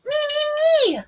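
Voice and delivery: put-on very high kid's cry; high giddy child voice; eager child. A narrator's reading. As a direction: squeal like a little boy.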